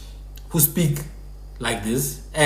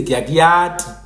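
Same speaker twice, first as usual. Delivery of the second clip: Baphuti-style sample phrase; Baphuti pronunciation; slower than usual. Shown as a demonstration. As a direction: demonstrate Baphuti speech. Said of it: "the Baphuti will say".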